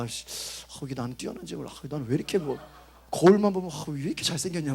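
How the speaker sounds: lightly mock a vain mirror-gazer; hint of a preening narcissist; smug self-admiration.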